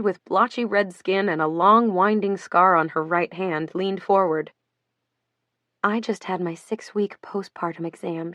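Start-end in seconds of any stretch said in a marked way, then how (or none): 5.8-8.3 soft, barely voiced; almost whisper it; near whisper. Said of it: "she near whispered".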